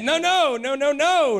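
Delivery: firm refusal. Retold or imitated. Husband refusing the float job, loud. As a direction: push back hard, mock.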